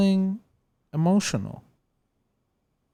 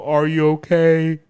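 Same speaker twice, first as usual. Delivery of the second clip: mock hurt outburst; 7 dB louder than usual. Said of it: "It's just acting".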